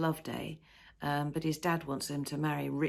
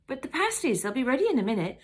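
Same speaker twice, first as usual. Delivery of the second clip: higher, louder calling after; anxious pleading; 8 semitones higher, 6 dB louder, faster than usual. Acted. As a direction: call after him anxiously. Wife pleads as he leaves.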